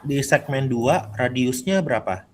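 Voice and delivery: slow clear repeat. Real, not acted. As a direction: say it again slowly for a bad line. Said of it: "Maaf, Pak, putus-putus". (diulang pelan-pelan)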